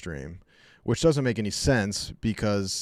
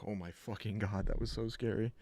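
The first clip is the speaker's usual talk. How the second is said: hushed scared dog; 10 dB quieter than usual. Retold or imitated. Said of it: "he was like".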